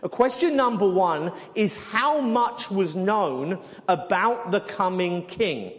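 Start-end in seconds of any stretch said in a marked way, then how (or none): 1.8-5.7 slow, deliberate weight on "king"; slow down into "king" and lean on it; stress on king. Real, not acted. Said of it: "I keep emphasizing that word king".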